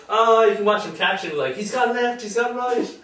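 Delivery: mock excited spectator. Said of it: "and it's like".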